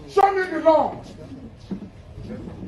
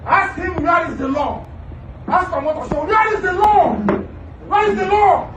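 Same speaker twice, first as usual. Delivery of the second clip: loud, raised where is the law; angry shout; 4 semitones higher, 6 dB louder than usual. Real, not acted. Defendant shouting at the judge by name, angry yell. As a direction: hurl the question.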